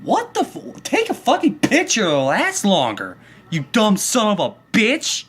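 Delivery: high-pitched mock yell at the old man; retold angry comeback; angry retort. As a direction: snap back at him, half yelling. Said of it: "I'm like".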